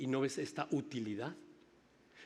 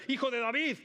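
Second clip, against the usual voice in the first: higher, louder desperate cry of "Hijo de David"; retold shout; 10 semitones higher, 5 dB louder than usual. Blind men crying out to Jesus, loud desperate shout. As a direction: call out "Hijo de David" as if begging across a crowd. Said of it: "y le gritan".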